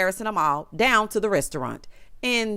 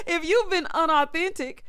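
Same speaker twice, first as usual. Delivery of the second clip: mocking repeat; 7 semitones higher than usual. Mocking Bria's wrong word again.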